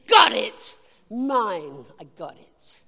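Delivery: sudden shout of got it then a hush; snatch it like a prize, then hold it close; excited grab. Retold or imitated. Preacher acting out grabbing the promise, shouting then hushed.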